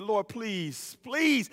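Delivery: soft plea rising on the last word; pleading. Retold or imitated. Grieving son praying to the Lord, retold pleading. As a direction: beg the Lord softly. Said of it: "And so I'm pleading".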